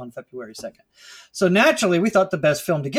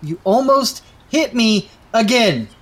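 annoyed; 5 semitones higher, 5 dB louder than usual. Acted. Coach annoyed.

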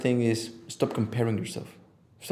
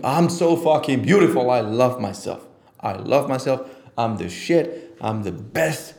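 emphatic self-affirmation; 4 dB louder than usual. Shown as a demonstration. Demonstrating morning self-affirmations.

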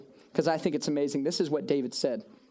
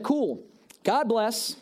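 sarcastic; 4 semitones higher, much slower than usual. Acted. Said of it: "that's pretty sarcastic".

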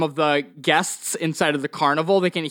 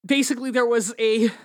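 higher, stammering explanation; flustered Doctor Smith; 5 semitones higher than usual. Acted. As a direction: fumble for an explanation, tripping on words. Game master plays flustered Doctor Smith.

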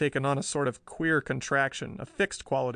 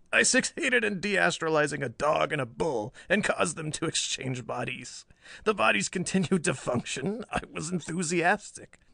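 raised-pitch, emphatic crazed inventor; mad professor insisting; 4 semitones higher than usual. A narrator's reading. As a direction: explain the invention with fevered conviction. Professor continues his confession.

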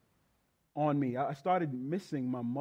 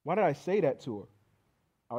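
regretful; 3 semitones lower than usual. Retold or imitated. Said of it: "I was truly like".

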